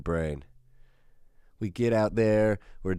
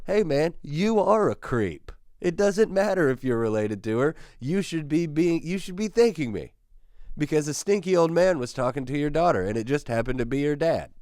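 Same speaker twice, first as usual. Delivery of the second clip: high, emphatic mock-indignant comeback; worked-up retort; 6 semitones higher than usual. Narrator snaps back at the girl's father, indignant and high-pitched. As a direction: push back hard, voice climbing high. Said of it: "he starts stressing me down, and then I go".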